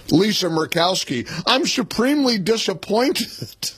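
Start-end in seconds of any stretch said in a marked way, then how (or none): 1.5-3.7 higher-pitched mocking quote; mock disappointment. Host mocking Lisa Murkowski's reaction, mock disappointment. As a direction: mimic a let-down senator for ridicule.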